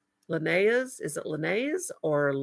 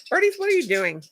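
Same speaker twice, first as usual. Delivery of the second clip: calling birds; 11 semitones higher than usual. Real, not acted.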